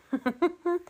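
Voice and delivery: light, high-pitched little laugh; amused chuckle. Real, not acted. Laughing at friends thinking she's organised and tidy, amused chuckle. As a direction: chuckle to yourself in a quick run.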